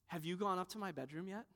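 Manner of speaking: soft, mock-innocent child's question; subtle hint. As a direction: imitate a child slyly fishing for praise. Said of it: "We try these subtle ways".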